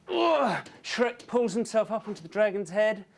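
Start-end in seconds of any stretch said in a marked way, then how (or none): 0.1-0.7 high straining "ugh"; effortful grunt. Acted. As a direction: grunt while hauling yourself up. Shrek straining to climb up.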